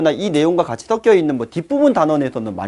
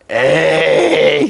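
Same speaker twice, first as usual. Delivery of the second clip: long drawn-out "aww, come on" from the class; mock student jeer; 4 dB louder, much slower than usual. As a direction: imitate pupils protesting with one stretched-out cry. 학생들의 야유를 흉내. (학생들 야유 흉내 내며 길게 끌기)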